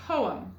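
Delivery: poem stressed as POH-um; accent on the beginning. Shown as a demonstration. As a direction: say the PO of "Poem" a little stronger. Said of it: "it goes on the beginning".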